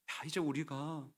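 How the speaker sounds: soft, understated plea; mildly pleading, acted tenderness; tearful compassion. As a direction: ask gently, as if near tears. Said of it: "눈물이 좀 글썽글썽 거리면서".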